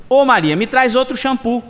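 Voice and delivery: lightly acted holler; calling out. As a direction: call to someone in another room, half-hearted shout. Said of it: "Ele grita de novo".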